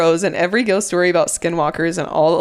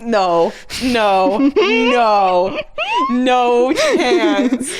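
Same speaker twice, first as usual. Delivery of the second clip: shouted refusal; 4 semitones higher, much slower than usual. Real, not acted. Scared reaction to story.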